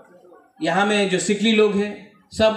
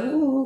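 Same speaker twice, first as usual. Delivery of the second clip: higher-pitched imitated "ooh, ooh" jeer; mock hooting laugh; 5 semitones higher than usual. Speaker imitating the audience laughing at him, mock hooting. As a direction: mimic the crowd's laughing hoots. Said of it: "करके हंस रहे हैं".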